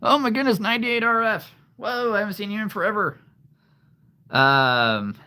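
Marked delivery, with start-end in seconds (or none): 0.0-3.2 high, loud, delighted surprise; excited greeting. Real, not acted. Host welcomes long-absent viewer, excited. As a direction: burst out high in happy amazement.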